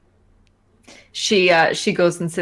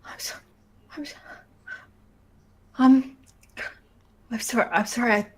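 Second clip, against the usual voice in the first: flustered tearful apology; 6 semitones higher, faster than usual. Acted. Sobbing before the stewardess.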